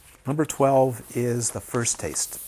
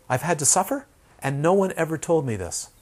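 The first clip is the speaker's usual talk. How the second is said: higher, a bit louder, aggrieved complaint; mock indignation; 4 semitones higher, 4 dB louder than usual. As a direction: complain hotly, as the cheated student. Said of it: "She was mad".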